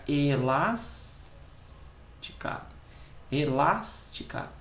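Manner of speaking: "Elástica" stretched slowly, syllables apart. Shown as a demonstration. Teacher testing the syllable division, "Elástica" slowly split up. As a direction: draw out "las" in "Elástica", pausing before the ending. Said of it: "se eu tenho separação silábica".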